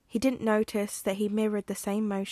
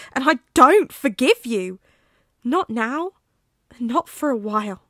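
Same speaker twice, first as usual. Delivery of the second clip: wounded, unforgiving, pushing louder; hurt friend refusing to forgive, growing angry; bitter refusal; 4 dB louder than usual. Acted.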